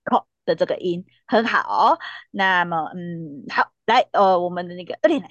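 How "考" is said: 考 stopped short in the throat; choked 考. Shown as a demonstration. Teacher showing the final consonant, 考 choked short. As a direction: cut 考 off as if the neck is grabbed. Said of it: "有人抓住你的脖子的感觉".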